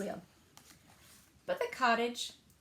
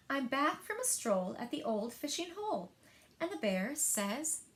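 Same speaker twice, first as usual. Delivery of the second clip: put-on lively read-aloud for young children; story narration; 2 semitones higher than usual. A narrator's reading. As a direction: tell it like story time at the library. Librarian reads picture book aloud.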